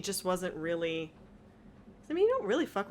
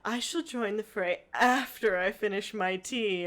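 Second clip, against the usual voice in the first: Y'shtola; 3 semitones higher, slower than usual. Retold or imitated. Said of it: "Y'shtola's like".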